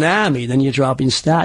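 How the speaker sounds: "army" with no R, as "ahmy"; dropped R's. Shown as a demonstration. Dialect coach showing British influence, "army" without its R. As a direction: drop the R in "army", leaving a long open vowel. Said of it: "where they drop the R's".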